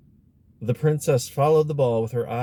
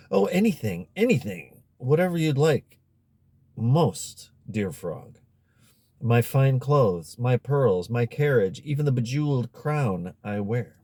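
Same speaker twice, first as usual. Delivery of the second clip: eager pleading; 3 semitones higher than usual. Acted. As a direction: rush to offer it all. Princess begs frog eagerly.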